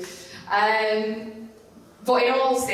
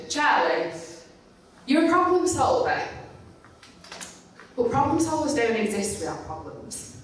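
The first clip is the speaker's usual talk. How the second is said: mum's voice; 5 semitones higher than usual. Retold or imitated. Mum's advice voiced in story.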